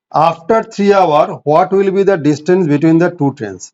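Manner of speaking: very slow, even reading of a word problem; measured classroom dictation. Shown as a demonstration. Teacher dictates the question.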